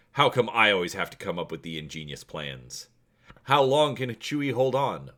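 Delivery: steady storytelling read-aloud; story narration. A narrator's reading. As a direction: read the adventure to viewers like a storyteller. Reads the story chapter aloud.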